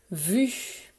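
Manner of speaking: "Vu." said alone and drawn out; dictated syllable. Shown as a demonstration. Teacher dictates the first syllable to pupils, clearly articulated. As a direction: say "Vu." as one clear, separate syllable. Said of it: "C'est parti pour la première syllabe".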